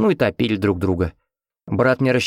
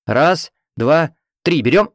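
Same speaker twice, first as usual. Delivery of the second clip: loud, higher shouted count; count to lift; 7 semitones higher, 5 dB louder, slower than usual. A narrator's reading. Nurse counting the team into the lift: loud shouted count. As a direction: call the count so everyone lifts together.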